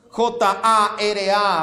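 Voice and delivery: J A R A, each letter slow and separate; spelled out letter by letter. Shown as a demonstration. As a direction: spell J A R A slowly for the congregation. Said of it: "J A R A".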